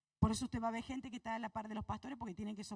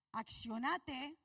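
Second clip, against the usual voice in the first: slow emphatic; much slower than usual. Shown as a demonstration. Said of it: "Accionate para que Él lo haga".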